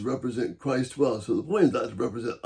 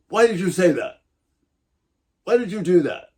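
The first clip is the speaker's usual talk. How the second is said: sharp demanding why, higher and louder; accusing why, lashing out at someone; 6 semitones higher, 5 dB louder than usual. Shown as a demonstration. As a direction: fire the why questions like an accusation. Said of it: "lashing out".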